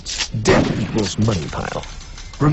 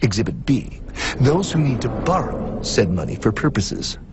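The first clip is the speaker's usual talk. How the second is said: dramatic presenter narration. Acted. Narrator figure presents exhibits.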